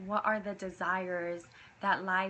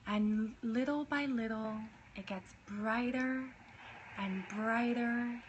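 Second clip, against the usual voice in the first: right in your ear. Acted. Leads a meditation.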